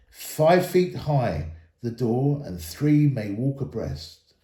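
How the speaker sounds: measured, slow recitation of an inscription; slow reading of runes. Acted. Elrond reads the runes on the map aloud, slow and measured. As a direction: read the old runes out slowly.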